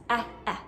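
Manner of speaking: eh said twice, open e; isolated vowel sound. Shown as a demonstration. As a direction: hold the bare eh. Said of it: "we have et".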